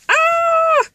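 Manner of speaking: high, loud cry of frustration; a sudden squeal of annoyance; frustrated yelp. Real, not acted. Blanking on a word, a high frustrated yelp. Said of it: "I'm so frustrated".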